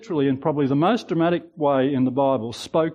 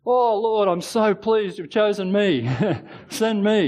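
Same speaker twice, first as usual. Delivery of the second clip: mock eager; 6 semitones higher, slower than usual. Moses eagerly volunteering, mock enthusiasm.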